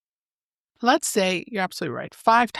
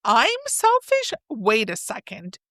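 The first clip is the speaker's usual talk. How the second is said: mock indignant comeback. Partner firing back at an accusation in mock indignation. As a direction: throw the blame right back, half-playful. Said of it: "you're gonna criticize me back".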